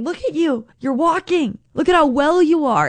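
high, delighted, gently praising; delighted encouragement. Pretend. Jesus delighting in the healed man, high and tender. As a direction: beam at him like a proud friend.

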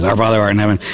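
low, rushed mumble-through of a prayer; rattled-off prayer. Retold or imitated. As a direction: mimic a penitent hurrying through repeats. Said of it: "they just say these prayers really, really fast".

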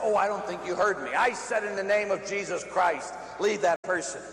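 emphatic retold rebuke; insistent repeated command. Repeats exorcism to laughing devil.

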